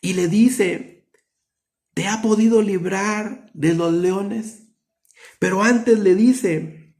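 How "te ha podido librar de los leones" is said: slow, higher, anxious question to Daniel; sad king's question. Acted. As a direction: ask it slow and pleading, dreading the answer. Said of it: "Pero él estaba triste y le dice".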